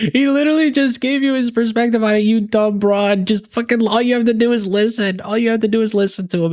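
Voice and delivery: high-pitched, exasperated scolding; exasperated rant. Real, not acted. Commentator berating a guest who missed the point, exasperated. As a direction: scold in a high, incredulous rush.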